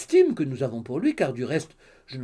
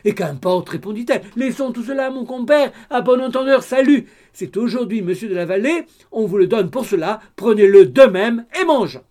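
the gossip mother, louder and excited; 7 semitones higher, 10 dB louder than usual. Acted. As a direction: blurt it all out like a chattering busybody. Madame d'Alin's loud chatter. (la mère bavarde, plus fort et excitée)

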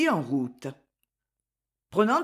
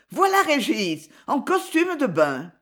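triumphant cry; 5 semitones higher than usual. Acted. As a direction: announce the rescuer in triumph. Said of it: "jeta un cri de triomphe". (cri de triomphe, plus aigu et plus fort)

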